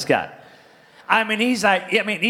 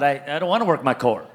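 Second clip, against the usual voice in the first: half-laughing, mock-desperate plea; laughing through it; 7 semitones lower, faster than usual. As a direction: laugh while begging off the exercise. Pastor retells painful plank workout.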